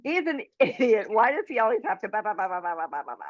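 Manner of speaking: imitating an irritated rant, tailing off into blahs; mock-exasperated head voice running down; exasperated inner rant. Exasperated inner rant about husband.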